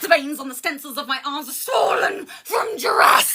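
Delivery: anguished half-shout through tears; crying out. Acted. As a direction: cry the line out. Emotional peak of poem.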